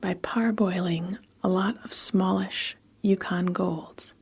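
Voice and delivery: measured, evenly phrased storytelling; story narration. A narrator's reading. Narrator recording a story for listeners, measured storytelling. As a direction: read it steadily with pauses between phrases. Reads a story between retakes.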